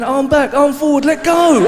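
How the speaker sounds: bossy little coach calling out each move. Retold or imitated. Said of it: "midget going".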